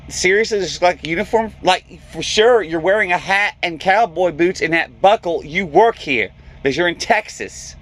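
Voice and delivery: lightly put-on valley girl accent, "like, totally"; mock a ditzy valley girl's whining. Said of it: "she got this girl's accent and everything".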